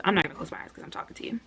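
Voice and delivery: fast, hushed aside to the camera; a rushed little whispered joke. Real, not acted. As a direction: slip it in quickly under your breath. Quick aside to viewers.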